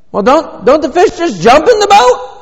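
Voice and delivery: very high, loud naive question; hammed-up bewildered protest; mock incredulous. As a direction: play a clueless objector, voice shooting way up. Acts out a naive excuse-maker.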